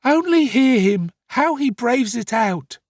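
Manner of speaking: loud, high appeal to bystanders; crying out. Acted. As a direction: cry out in high-pitched indignation. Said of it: "cried the young woman".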